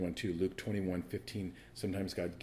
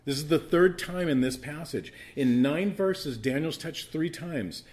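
raised, forceful sermon delivery; emphatic preaching; 6 semitones higher, 6 dB louder than usual. Real, not acted. Preacher telling the church Daniel was touched three times, emphatic preaching. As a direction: drive each point home to the congregation.

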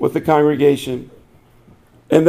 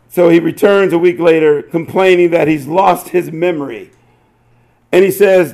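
ordinary talk, nothing marked

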